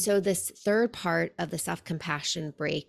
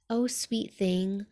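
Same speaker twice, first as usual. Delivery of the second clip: gentle loving; 2 semitones higher, slower than usual. Retold or imitated. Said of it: "the most gentle, loving tone".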